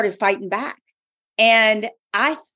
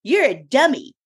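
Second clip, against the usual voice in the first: higher, mocking devil's jeer; devil's taunting voice; 5 semitones higher than usual. The devil mocking her book on joy, higher jeering. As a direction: tease her like a scornful imp. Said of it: "And he was like".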